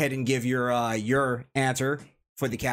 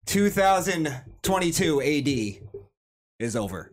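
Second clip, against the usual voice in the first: mock-solemn proclamation. Host declaring the year finished, mock-solemn. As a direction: draw out the year, then drop to close.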